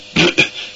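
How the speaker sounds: a dry cough breaking the reading; choking cough. Acted. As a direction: cough as the voice catches. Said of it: "صدایش گرفت".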